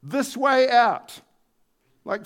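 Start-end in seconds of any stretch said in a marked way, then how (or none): 0.0-1.2 guiding call. A narrator's reading. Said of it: "the phrase can also be interpreted".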